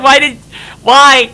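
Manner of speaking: mock Bill wail. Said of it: "It's like".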